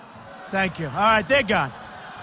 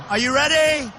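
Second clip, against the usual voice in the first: rally call out. Real, not acted. Calling out to crowd.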